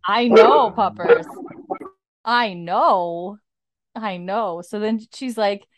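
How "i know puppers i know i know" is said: loud, raised pet-talk, easing off; placating a pet mid-story; talking to a dog. Real, not acted. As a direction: sympathize with the dog over the interruption.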